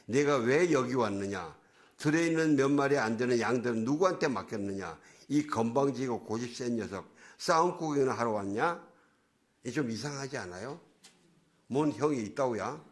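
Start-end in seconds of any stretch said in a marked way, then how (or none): 0.1-8.8 mildly angry scolding; Eliab. Retold or imitated. Eldest brother scolds David at the battlefield, mild mock anger. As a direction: read out a big brother's rebuke with a touch of force. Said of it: "그에게 화를 내며 말했습니다".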